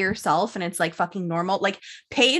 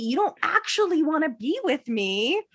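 high, loud dramatic quote; show character impression; 6 semitones higher, 4 dB louder than usual. Quoting an Outer Banks girl confronting Topper, loud dramatic voice. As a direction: push it higher and louder, hamming up the confrontation. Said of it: "where she's like".

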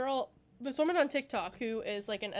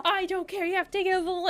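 high, loud mock outrage; retold yelling mom; 7 semitones higher, 6 dB louder than usual. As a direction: imitate an angry mother overruling someone. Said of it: "screaming and yelling".

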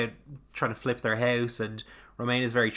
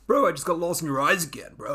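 a lightly voiced dazed bro, higher and louder; dreamy bro talk; 5 semitones higher, 4 dB louder than usual. Co-host mimics Davina gushing over Vanessa's eyes, light bro voice. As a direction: gush like a lovestruck bro. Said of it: "She's like".

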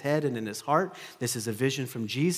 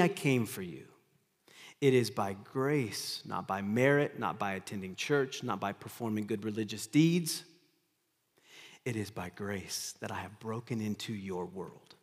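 tender Jesus; 4 semitones lower, 4 dB quieter than usual. Acted. Jesus voiced, gentle grace.

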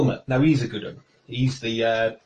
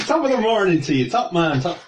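put-on Irish accent; 5 semitones higher than usual. Stock Irish greeting, joking.

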